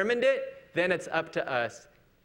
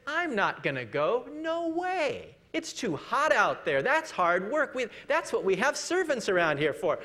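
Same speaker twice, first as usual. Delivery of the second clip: higher, whiny refusal; lazy younger son; 4 semitones higher than usual. Acted. Younger son refusing his father, whiny. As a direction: sulk like a spoiled son. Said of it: "he says".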